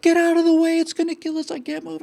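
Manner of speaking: high pitched desperate yell fading on the last words; mock scream over the PA. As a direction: replay the panic heard through the ship speakers. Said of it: "you hear this kind of".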